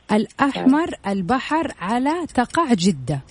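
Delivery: slow, word by word in reverse; backwards speech. Shown as a demonstration. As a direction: spell out the reversed sentence slowly. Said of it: "أنا قلتها بالمقلوب".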